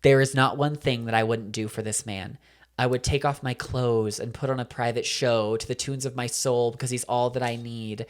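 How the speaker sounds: measured, rhythmic poetry-slam recital, softening at the end; spoken word poetry. Retold or imitated. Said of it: "breaks out into spoken word poetry".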